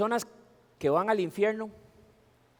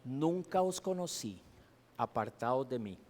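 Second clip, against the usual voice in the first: softer, slow and grave; solemn hushed verdict; 3 semitones lower, 6 dB quieter than usual. Acted. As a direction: let the rejection fall quietly. Quoting Christ's rejection, solemn.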